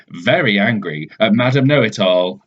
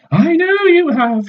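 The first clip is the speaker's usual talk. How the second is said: much higher, louder and slow, smug; Madam Know-It-All; 4 dB louder than usual. Acted. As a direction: drag it out like she knows it all. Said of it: "she says".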